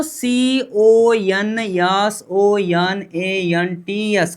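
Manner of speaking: slow spelling. Shown as a demonstration. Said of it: "spells out consonants".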